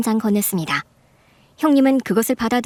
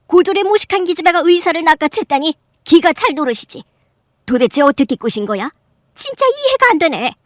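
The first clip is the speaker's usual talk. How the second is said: dismissive aunt; 5 semitones higher, 3 dB louder than usual. Acted. Aunt brushes off the mother.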